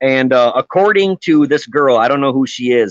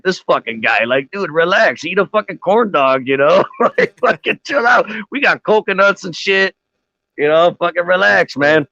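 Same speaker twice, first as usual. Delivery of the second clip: bad Jamaican accent; 4 semitones higher than usual. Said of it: "fucking reggae singer accent".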